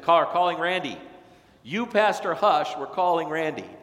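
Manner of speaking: lightly hammed-up retold insistence; mock insistence. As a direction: replay the committee pressing their choice. Retelling the call meeting.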